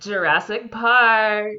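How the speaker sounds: slow, stretched-out reveal; drawn-out announcement. Pretend. Host reveals next week's episode, slow drawn-out announcement. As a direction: announce the title slowly, stretching it.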